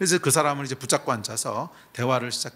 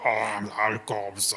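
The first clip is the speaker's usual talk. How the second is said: very slow, low, changed demonic voice; 4 semitones lower than usual. Retelling what a possessed person answered: imitating a possessed person's changed voice. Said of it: "이 영화에서처럼 목소리가 바뀌어요".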